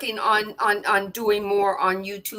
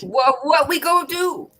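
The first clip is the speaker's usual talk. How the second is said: excited echo; 4 semitones higher, 4 dB louder than usual. Acted. Echoing the outburst.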